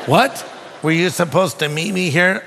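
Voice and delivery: retold incredulous repeat, rising at the end; baffled echo. Preacher recalls echoing the stranger's question, baffled. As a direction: throw the question back in disbelief.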